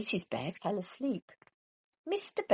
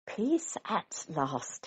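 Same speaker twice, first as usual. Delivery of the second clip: slow, relieved sigh; sleepy relief; much slower than usual. Acted. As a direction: sigh it out, drowsy. Mister Bear sleepy relief.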